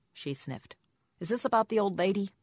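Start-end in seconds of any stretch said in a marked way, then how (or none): 1.2-2.3 higher, louder squeaky question; lightly squeaky caller, pitched up. A narrator's reading. Caller probes why the investigator rang, squeaky voice. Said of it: "a Jane with a squeaky voice said".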